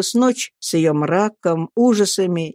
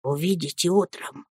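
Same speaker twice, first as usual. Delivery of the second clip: whispered reassurance; 7 dB quieter than usual. A narrator's reading. Nanny reassuring the boy through keyhole, soft whisper. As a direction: reassure in a hushed voice. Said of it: "шепчет Пиготи".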